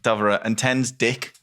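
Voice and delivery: shepherd counting sheep. Shown as a demonstration. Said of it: "a Cumbrian sheep counting system".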